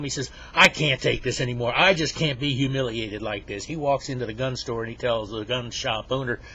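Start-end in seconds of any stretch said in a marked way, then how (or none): 0.5-3.6 loud, mildly acted exasperation; fed-up anger. Humiliated Henry fuming on his way home, fed-up anger. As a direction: vent like you've had enough. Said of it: "he's getting madder and madder".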